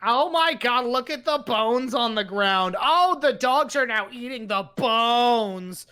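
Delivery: lightly voiced wife, mock dismay; a hint of a fussy wife. Husband imitates wife finding the bones. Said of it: "She does not sound anything like that".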